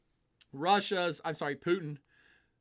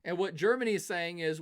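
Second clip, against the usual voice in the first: usual speaking voice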